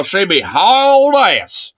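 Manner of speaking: Southern voice, stretching "hauling" slowly; slow Southern voice on "hauling ass". Retold or imitated. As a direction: draw out "she be hauling ass" Southern style. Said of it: "Southern deep black guy voice".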